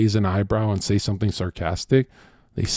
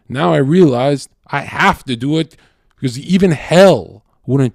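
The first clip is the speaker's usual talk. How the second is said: outraged rant; 2 semitones higher, 4 dB louder than usual. Retold or imitated. Man reacting to shocking news.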